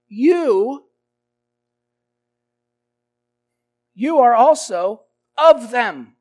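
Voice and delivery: loud pointed accusation; accusing. Acted. Servant girl accusing Peter, loud and pointed. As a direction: jab the accusation straight at him.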